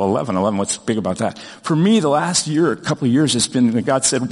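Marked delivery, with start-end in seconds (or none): 0.0-1.4 a lower, unimpressed "Eleven eleven"; doubting listener. Retold or imitated. A doubting listener questions the eleven eleven sign, unimpressed. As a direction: shrug it off like a doubter. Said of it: "Well, you may go".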